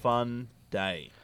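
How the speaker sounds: slow sarcastic drawl. Acted. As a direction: say it dryly, dragging it out.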